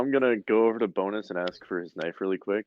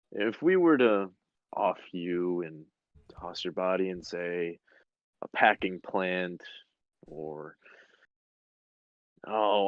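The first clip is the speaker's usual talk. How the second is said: slow, cold sly threat; smug menacing interrogator. Acted. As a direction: savour the threat slowly.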